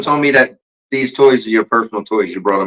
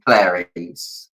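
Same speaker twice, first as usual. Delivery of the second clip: Hannibal Lecter voice; 3 semitones lower, much slower than usual. Retold or imitated. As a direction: breathe the name like a cannibal. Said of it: "Anthony Hopkins".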